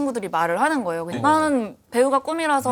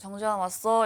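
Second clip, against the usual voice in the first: mock-indifferent tone, quieter; 6 dB quieter than usual. Retelling how someone greets a person arriving: imitating an indifferent greeting. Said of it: "심드렁하게".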